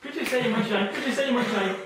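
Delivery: loud, high hammered chant; insistent suggestion. Real, not acted. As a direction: cut across their counting with forceful repetition. Hypnotist hammers suggestion during counting. (suggestion martelée d'une voix forte)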